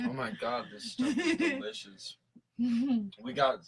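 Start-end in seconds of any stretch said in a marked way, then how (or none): 0.1-2.2 high delighted squeal; excited squeal. Real, not acted. Friend tasting the mead, squealing with delight. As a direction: gush over the drink, pitched way up.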